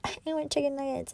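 high, airy, cutesy mock voice; mock a quirky girl ordering food. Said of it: "I'm not trying to be quirky".

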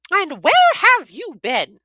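high, loud, slow mother's demand; mother confronts son, high and loud; demanding mum. A narrator's reading. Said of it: "demanded Mum".

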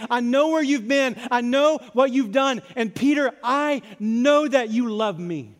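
lightly voiced Jesus, urgent and intent; Jesus speaking. Jesus urging Peter to face the wound, earnest. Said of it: "Jesus is saying".

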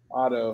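"auto" said slowly as Otto, soft flapped t; careful "auto" like the name Otto, unhurried; Otto without Midwestern accent. Shown as a demonstration. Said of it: "auto without the Midwestern accent".

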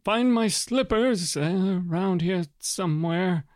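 put-on high, fussy request from an old man; fussy old lord. Old lord asking the envoy to find his slippers, high and fussy. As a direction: pipe up like a doddering lord looking for slippers.

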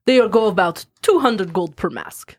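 lightly voiced Russian merchant accent; a hint of a thick Russian shopkeeper; mild mock Russian accent. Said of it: "This is my horrible Russian accent".

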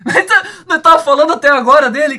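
amused disbelief, laughing. Real, not acted. Laughing that they just mentioned him.

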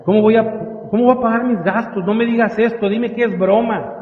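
restrained despair, pitch rising into pleading; retold tearful pleading. Distraught employee begging his boss to say it's a joke, mildly acted pleading. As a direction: mildly imitate a distraught plea, building towards the end. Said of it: "se me pone a llorar".

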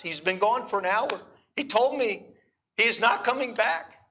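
put-on high, halting Hebrew-accented English, mildly upset; tearful Hebrew accent. Abandoned girl telling of the fight, imitated Hebrew accent. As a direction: imitate a distressed Israeli woman, careful Hebrew-accented words. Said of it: "she's crying and she tells me this story".

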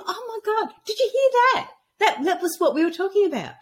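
high, excited disbelief; retold as a thrilled "did you catch that?"; amazed retelling. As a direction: pitch leaping up in amazement. Retelling surprise at the radio.

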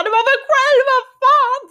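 sudden high, loud swearing yell; frustrated yell. Retold or imitated. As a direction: let it burst out like you're losing it in the car. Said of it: "jag bara sitter och skriker". (högt, argt skrik i bilen)

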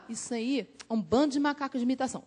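soft, quick dismissive aside; private prejudiced grumble. Retold or imitated. Speaker privately dismissing the copycat disciples, soft quick grumble. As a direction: say it under your voice, fast and scornful. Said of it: "Eu falava".

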